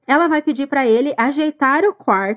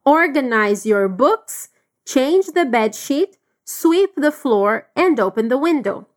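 slow model reading; slower than usual. Shown as a demonstration. Teacher reading the mother's list slowly. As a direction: list read very slowly and clearly.

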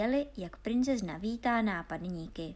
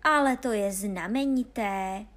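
louder cry of delight; delighted exclamation; 6 dB louder than usual. Acted. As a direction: exclaim it with glee. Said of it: "zvolal Honza". (nadšené zvolání)

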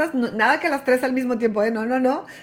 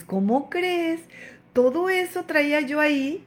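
higher, slow amazed laugh of disbelief; amused disbelief; 4 semitones higher than usual. Pretend. Rereading her letter, amused and slowly astonished. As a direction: marvel at your own old anger. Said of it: "A veces dices".

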